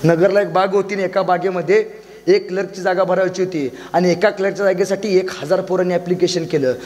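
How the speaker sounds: usual speaking voice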